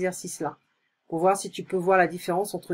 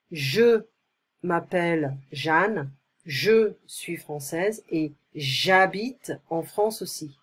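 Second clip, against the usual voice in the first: slow model reading; slower than usual. Shown as a demonstration. Teacher reads Jeanne's lines slowly.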